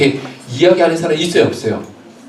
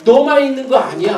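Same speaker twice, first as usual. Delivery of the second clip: high, raised telling-off; scolding crowd; 9 semitones higher than usual. Acted. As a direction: shush the noisy man with irritation. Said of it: "주변에서 책망을 했단 말이에요".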